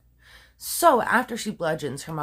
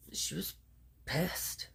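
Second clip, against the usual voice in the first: whispered; 2 semitones lower, 14 dB quieter, slower than usual. Real, not acted. Whispered punchline word.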